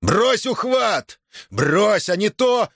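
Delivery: high, slow shouted order; shouting threats. Acted. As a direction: bellow at her to drop it. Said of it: "принялся грозить кулаком и кричать".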